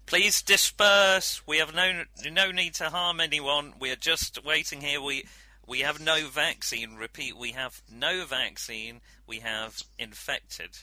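measured official announcement; in-character announcement. Acted. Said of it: "your little monologuing".

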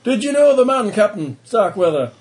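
put-on high, loud reporter with an Australian accent; eager Australian newsman accent. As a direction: fire questions in an Australian accent. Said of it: "It's Australian".

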